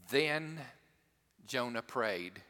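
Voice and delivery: "Then" set apart by a pause; weight on "Then", then pause before going on; stress on Then. Real, not acted. Preacher reading Jonah's prayer verse to congregation, stressing "Then". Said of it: "I emphasize the word then".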